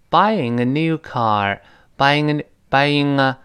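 slow "buying a", words run together; linked pronunciation. Shown as a demonstration. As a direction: link "buying a" smoothly, drawn out for learners. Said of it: "最后是个舌根连读".

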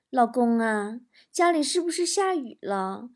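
lightly voiced sweet wife, slow start; a hint of a coaxing wife; wife on phone. Husband voices wife phoning him.

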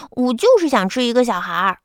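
a mild petulant insistence on 就; irritated child. Acted. Kiki refuses his parents' offer, mildly irritated. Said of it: "琪琪烦躁地说".

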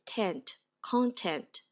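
content, second syllable tent with an open e sound; content with schwa-like vowel. Shown as a demonstration. Teacher showing the vowel in content, slow and careful. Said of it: "这里的E发的是三号元音A".

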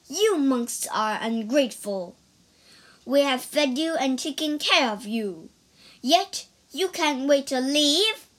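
indignant scolding, pressing harder each line; angry. Acted. Lady Ku scolds the departing monks, indignant. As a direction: scold the monks as ungrateful, mildly heated. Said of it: "Lady Ku grew angry".

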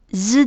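a plain buzzed "Z"; voiced Z ending. Shown as a demonstration. Teacher showing learners the added ending, voiced Z. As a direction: say Z as a buzzing voiced sound. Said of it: "读音就会加上Z的音".

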